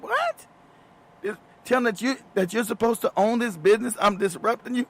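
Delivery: mock disbelief. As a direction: act stunned at the accusation. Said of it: "I'm like".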